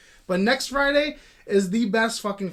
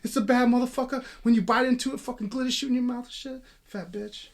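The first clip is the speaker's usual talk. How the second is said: loud, high-pitched opening, dropping at the end; movie character impression; 4 semitones higher, 4 dB louder than usual. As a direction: launch loudly into a quoted film rant. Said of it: "that's almost spot on, son".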